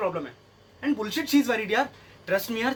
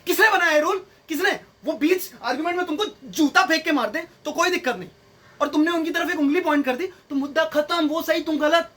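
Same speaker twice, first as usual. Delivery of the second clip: higher-pitched comic outrage; indignant rant; 4 semitones higher than usual. Acted. Man challenging her rule on finger pointing, indignant rant.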